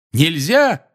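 high, indignant retort; yelled back in outrage; yelling. A narrator's reading. Seamus throwing Ron's word back at him, yelling. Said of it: "заорал Симус".

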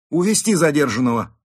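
loud, high-pitched order; commanding. A narrator's reading. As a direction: issue the order to an officer. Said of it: "приказал инспектор". (громкий приказ)

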